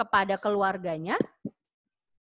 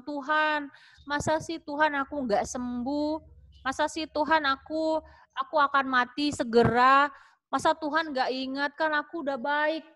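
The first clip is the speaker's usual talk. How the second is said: pleading king; 3 semitones higher than usual. Acted. King Hezekiah on his sickbed begging God, lightly pleading. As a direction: plead gently with God, hurt and puzzled.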